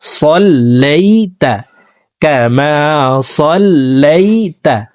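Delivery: সাল্লাইতা with a thick, heavy s; slow সাল্লাইতা, emphatic s; emphatic sad sound. Shown as a demonstration. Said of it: "সদ হরফকে মোটাভাবে পড়তে হবে".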